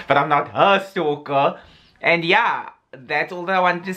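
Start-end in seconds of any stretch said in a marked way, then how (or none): 0.1-1.6 "her" leaned on as the exception; stress on HER. Real, not acted. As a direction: hit the word "her" in the denial. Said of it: "I may be a stalker".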